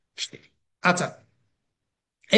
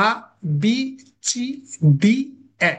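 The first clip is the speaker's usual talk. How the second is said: "আ, বি, সি, ডি, এ" each short with a pause after; crisp separate letters, no stretching; short, straight letters; 3 dB louder than usual. Shown as a demonstration. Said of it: "না, হবে না".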